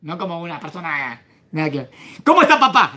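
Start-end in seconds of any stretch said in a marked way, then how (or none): 2.2-2.9 brotherly casual. Acted. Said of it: "Es como diciendo".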